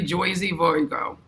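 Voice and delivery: put-on New York accent. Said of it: "I got the New York accent".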